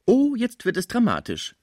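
high dancer's cry of mock drama; mocking exclamation. A narrator's reading. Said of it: "rief die schöne Eloise". (theatralisch spöttischer Ausruf)

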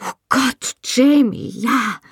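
high, breathless cry of his name; ecstatic cry. A narrator's reading. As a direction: let it break out of you, pitched high. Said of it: "rief ich".

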